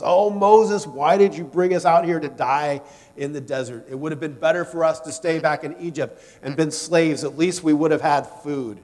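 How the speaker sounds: a loud whiny complaint to Moses; grumbling Israelites. Retold or imitated. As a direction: moan it like hungry people in the desert.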